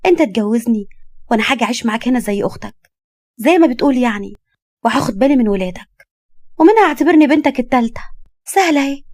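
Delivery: put-on lively young woman, rising in pitch; brightly insistent bargaining; persuasive young woman. Young woman argues for marriage.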